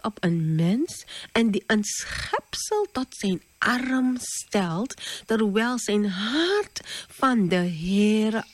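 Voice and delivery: slow, weighty Bible reading; solemn scripture reading. Acted. Preacher reading Jeremiah to the children, slow and solemn. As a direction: read the verse slowly and gravely. Reads Bible verse aloud.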